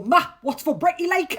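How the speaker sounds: put-on a child's question in broad Geordie; Geordie accent. Imagined kid asking ma about breakfast, Geordie accent. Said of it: "to have a Geordie accent".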